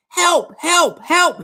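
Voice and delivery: high-pitched calls for rescue; acted shout for help. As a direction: call out high, as a stranded hiker would. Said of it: "He decides to shout again".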